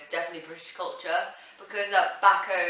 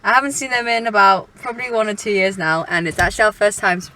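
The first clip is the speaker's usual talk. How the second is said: excited; 4 semitones higher, 11 dB louder than usual. Real, not acted. Driving to pick up parents.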